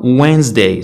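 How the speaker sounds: وينزداي as "wenz-day"; silent D. Shown as a demonstration. Teacher giving a common example word, silent D. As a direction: leave the first D out of وينزداي. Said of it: "ما درتش الدي بالأحمر".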